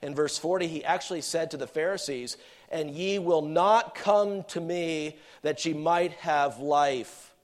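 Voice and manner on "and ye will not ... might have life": slow, measured reproof; weighty, unhurried scripture quote; stern rebuke. Acted. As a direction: deliver it as a deliberate rebuke. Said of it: "He was rebuking them".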